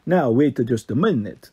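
put-on slow, firm Italian-accented boss; slowed firm command with an Italian lilt. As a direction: stop them in their tracks, slowly. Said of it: "the Italian voice boss said firmly".

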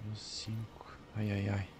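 whispered under the breath; tense whisper. Real, not acted. Streamer creeping past guards, whispering. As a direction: hush it, as if the guards might hear. Tense sniping, hushed aside.

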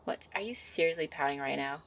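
a gentle witch fussing over her sweetheart; a hint of a bubbly witch girlfriend; young witch character.

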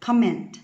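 "comment" with the beat on COM, -ment left weak; first-syllable stress. Shown as a demonstration. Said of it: "đều đọc cho cô Hoa âm tiết số một".

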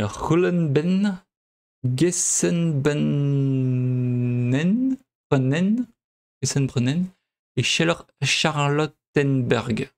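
slow, halting attempt at German names; attempted German pronunciation. Real, not acted. Player reading out Berlin station names, slow uncertain German accent. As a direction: feel out each German station name slowly. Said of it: "excusez mon accent".

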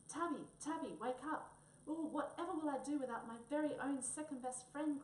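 high, loud wail over a stiff cat; calling out in distress, voice lifted; crying. Acted. Wombat cries over Tabby lying stiff, high wailing plea. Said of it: "cried Wombat".

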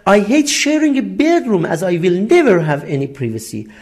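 very slow, careful English read for learners; slow classroom dictation voice; slow example reading. Shown as a demonstration. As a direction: spell out each word slowly like a teacher. Teacher reads English example sentence.

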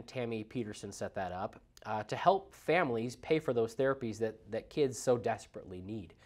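stuffy nose from a cold; congested. Real, not acted. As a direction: speak with a blocked nose, congested. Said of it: "so I'm a little congested".

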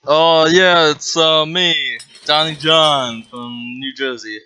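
Donnie John. Pretend. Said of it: "one of those, uh, voice changers, whatever, maskers".

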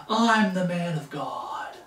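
mock shout. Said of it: "And start name-calling".

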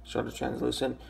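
raspy just-woke-up voice; rough morning rasp. Real, not acted. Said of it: "my voice is kind of raspy".

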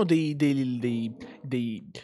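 stuck repeating one word; tongue-tied stumbling. Real, not acted. Streamer losing the thread, tongue-tied repetition. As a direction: trip over "dei", searching for words. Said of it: "non so parlare, cazzo, stasera".

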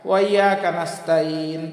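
"ওয়া ইয়াকা নাস্তাইন" with hamza slurred away; common misreading. Shown as a demonstration. Teacher showing common mistake, slurred misreading. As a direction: run "ওয়া" into YAKA. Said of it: "আসলে এরকম হবে না".

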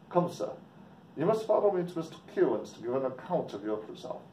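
lightly put-on Irish brogue; stern local with an amateur Irish lilt; Irish accent. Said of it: "Sorry about my English or Irish accent".

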